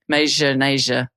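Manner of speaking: Major Nasia slurred as "MAY-zhuh NAY-zhuh"; slow, fumbled "Major Nasia"; botched pronunciation. Retold or imitated. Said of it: "I can't pronounce things very well".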